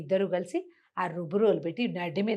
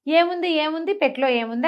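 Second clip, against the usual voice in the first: eager thieves; 6 semitones higher than usual. Acted. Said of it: "అని అడిగారు వాళ్ళు".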